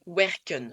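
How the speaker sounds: "werken" said slowly, final E like French "eu"; Dutch pronunciation. Shown as a demonstration. Teacher showing learners the correct word, Dutch pronunciation. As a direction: say "werken" with a short final "eu" sound. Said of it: "Donc un E comme un E français".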